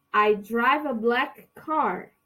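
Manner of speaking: "I drive a black car." slow and clear; slow it down so students can repeat; slow, careful "I drive a black car."; slow model sentence. Shown as a demonstration. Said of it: "vocês vão repetir pra mim".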